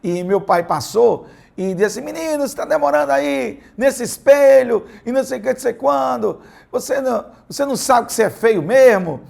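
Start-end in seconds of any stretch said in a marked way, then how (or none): 2.0-9.2 father teasing, high and loud, mocking. Father mocking his son at the mirror, teasing tone. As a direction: poke fun at the boy lightly, pitched up. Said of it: "num tom de brincadeira, num tom de chacota".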